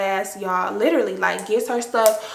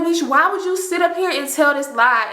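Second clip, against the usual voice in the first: higher-pitched mock indignation; indignant disbelief; 6 semitones higher than usual. Friends facing the girl who lied, indignant disbelief. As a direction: demand an answer in disbelief. Retold indignant reaction to the lie.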